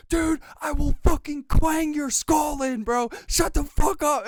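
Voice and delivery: loud, high mock threat. Streamer retelling how he threatened his teammate, mock angry. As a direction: bark it at your teammate. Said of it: "and I was like".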